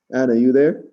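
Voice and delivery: loud call with rising question. Real, not acted. Delivery driver checking Anna is there, calling out.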